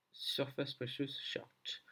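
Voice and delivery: slow English words in a heavy French accent. Real, not acted. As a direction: read the English chart name with a thick French accent, slowly. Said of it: "J'ai un super accent anglais".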